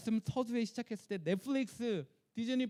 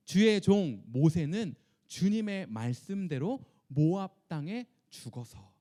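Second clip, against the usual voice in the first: slow, deliberate scripture reading aloud; slow group reading; 4 dB louder, slower than usual. Shown as a demonstration. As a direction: read it out slowly together, line by line. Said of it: "시작". (성경을 천천히 함께 읽듯이)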